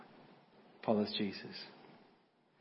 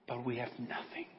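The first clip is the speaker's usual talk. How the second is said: quiet despair; 4 dB quieter than usual. Acted. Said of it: "tears are rolling down".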